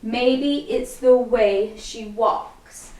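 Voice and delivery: very slow, drawn out to the moves; slow counted lyric. Shown as a demonstration. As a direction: stretch each word on the beat. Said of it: "So it's gonna go".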